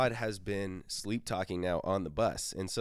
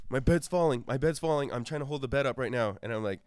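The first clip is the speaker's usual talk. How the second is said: higher, louder desperate pleading; panicked sleep-talk; 8 semitones higher, 10 dB louder than usual. Retold or imitated. Todd begs the narrator to help hold the bed, loud high panic. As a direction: beg for help with rising alarm. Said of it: "He's like".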